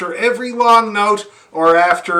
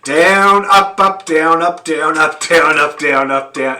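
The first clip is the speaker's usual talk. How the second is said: "down, up" called out louder in rhythm; calling bow directions; 4 dB louder than usual. Shown as a demonstration. Teacher calling out the simple bowing pattern to students. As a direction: call the bowing like a coach. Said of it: "you go".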